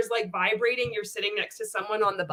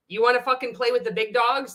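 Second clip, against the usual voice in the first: taunting shout; 3 semitones higher than usual. Acted. Taunting Bob in a rant.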